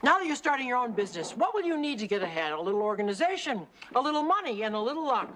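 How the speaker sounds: brisk motivational read-aloud, easing at the end. Acted. Kate reads her business book to a busy partner, reading aloud. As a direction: read it out like self-help gospel.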